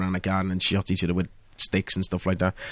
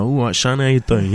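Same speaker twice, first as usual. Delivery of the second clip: London driver. Retold or imitated. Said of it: "if you were a driver on a film set".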